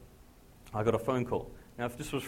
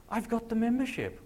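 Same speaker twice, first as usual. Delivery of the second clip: excited insistence; 11 semitones higher, 3 dB louder than usual. Retold or imitated. Preacher insisting on the phone.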